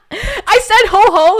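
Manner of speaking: high, slow hearty ho ho ho; Pei Ming laugh. Pretend. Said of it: "I guess I am Pei Ming".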